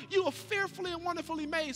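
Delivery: reassuring declaration. Acted. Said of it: "you remind people, Sweetheart".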